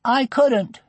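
put-on high-pitched child's refusal; high, unhappy child's voice; upset little girl. A narrator's reading. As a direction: voice a girl too worried to eat. Upset girl refuses her tea.

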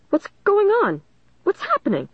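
mild shout, pitched well up; confused angry shout. A narrator's reading. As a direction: call it out high, angry and baffled. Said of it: "the teacher shouted, anger mixed with confusion".

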